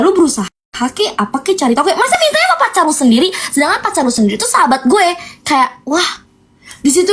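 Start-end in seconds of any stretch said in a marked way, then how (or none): 1.9-5.1 fast, pitched-up outrage; indignant rant. Real, not acted. Ranting to viewers, fast indignant outrage. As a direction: rattle it off in disbelief.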